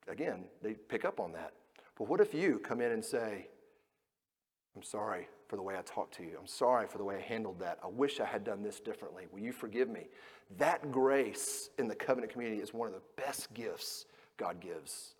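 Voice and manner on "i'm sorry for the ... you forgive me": sincere apology. Retold or imitated. Parent apologizing to child.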